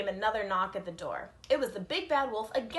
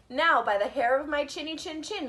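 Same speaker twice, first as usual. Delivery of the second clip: loud, higher, furious bellow; furious roar; 4 semitones higher, 6 dB louder than usual. Acted. Furious wolf at the brick house, roaring. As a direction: roar it in a rage. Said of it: "he roared".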